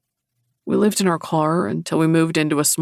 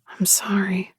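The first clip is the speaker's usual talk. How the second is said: whispering; 4 semitones higher than usual. A narrator's reading. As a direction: breathe it gently, barely voiced. Sympathy after stepfather's death.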